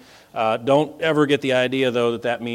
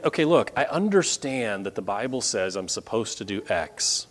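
questioning listener; 4 semitones higher, 3 dB louder than usual. Retold or imitated. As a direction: voice leaps much higher and louder on the challenge. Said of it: "Maybe you're saying".

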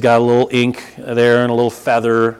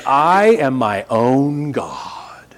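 mock whisper; much slower than usual. Mocking actress's claim.

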